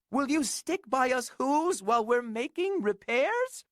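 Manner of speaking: high small pleading voice; pleading mayor. Acted. Mayor begging Horton to stay, high pleading. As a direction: plead in a tiny voice. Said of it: "pleaded that voice".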